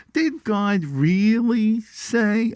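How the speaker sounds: put-on high, drawn-out Brooklyn Jewish accent. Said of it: "said it with that Brooklyn Jew accent".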